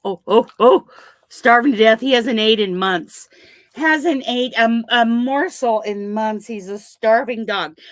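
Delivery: loud, teasing starving-dog drama; mock dramatic. Real, not acted. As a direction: tease the greedy dog loudly. Dog gobbles the treat.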